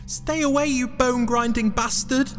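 high-pitched cartoon hero shouting; mock yell. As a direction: yell in a panicky, very high character voice. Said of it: "yelled Jack".

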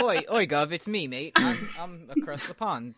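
hammed-up English geezer accent; mock British accent. Friends joking about English accents, mock British geezer. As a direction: put on a cheeky British street accent.

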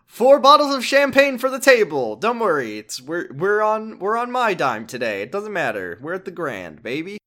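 high, loud and showy; throwing money around with glee; boisterous big spender. Retold or imitated. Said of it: "the Osaka businessman is just like".

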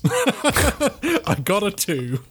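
laughing through the words, high and slow; giggling helplessly while talking. Real, not acted. Player laughing at a failed dice roll, giggling through the words. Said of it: "laughing at a failed roll".

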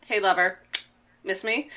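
soft, coy mock-flirt taunt; teasing. Double Face popping up in front of Hot Rod, teasing. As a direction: toss it off quietly like a smug tease.

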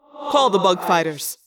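loud, slow commanding voice; barked order. Acted. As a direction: bark the order at the crew. Visser Three giving orders.

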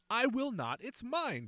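high loud defiant shout; yelled. A narrator's reading. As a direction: yell back defiantly. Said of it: "Baldy yelled".

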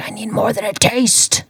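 breathy hungry whisper. Retold or imitated. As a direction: whisper it like a secret craving. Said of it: "He's like".

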